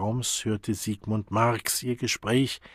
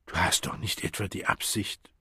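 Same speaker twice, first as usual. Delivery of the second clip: shocked hushed question; 5 dB quieter than usual. Acted. Friend shocked, jumps up.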